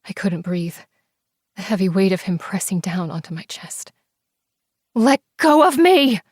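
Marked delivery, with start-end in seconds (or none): 4.9-6.2 high, loud terrified scream. Acted. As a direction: scream as you thrash under him. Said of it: "I screamed".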